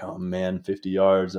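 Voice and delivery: softly muttered frustration at the distance; hushed to himself. Retold or imitated. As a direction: keep it under your breath so the moose can't hear. Sneaking up on a cow moose.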